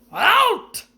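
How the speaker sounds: loud, high single blast; roar. A narrator's reading. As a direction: order them out in a rage. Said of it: "roared Uncle Vernon".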